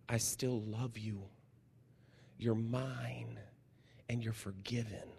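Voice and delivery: put-on soft, hushed little girl's voice; a child softly confiding to the pastor. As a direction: tell it quietly like a small child confiding. Child's quiet confession.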